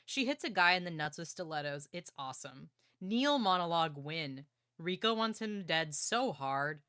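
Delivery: reading notes aloud. Real, not acted. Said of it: "I'll read you guys my note".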